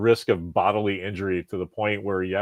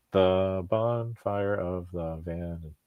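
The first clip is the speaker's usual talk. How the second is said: drawn out, very slow "The bonfire of the van-"; slow take; 4 dB quieter, much slower than usual. Shown as a demonstration. Counting haiku syllables for his cohost, very slow. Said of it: "ah, you say it fast".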